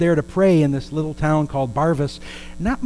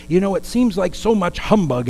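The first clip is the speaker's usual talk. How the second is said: lightly raised voice of a minister; higher-pitched, mildly emphatic quoting; quoted minister; 5 semitones higher than usual. Retold or imitated. Minister to the praying women, lightly voiced challenge. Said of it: "the minister said".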